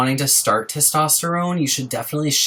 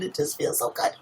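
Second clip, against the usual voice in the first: soft whisper, much softer; whispered delight at a purring cat; whispered bliss; 2 semitones higher, 8 dB quieter than usual. Real, not acted. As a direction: breathe it out in bliss.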